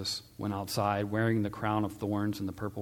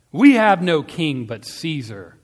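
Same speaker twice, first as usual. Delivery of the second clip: loud, slow, raised retort; crowd shouting; 5 semitones higher, 11 dB louder, slower than usual. A narrator's reading. Judeans rejecting Pilate's question about their king, defiant shout. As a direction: shout it back defiantly, drawn out.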